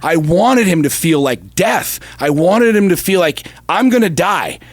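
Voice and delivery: burning with pride and conviction; fired-up. Real, not acted. Fired up about son's fight.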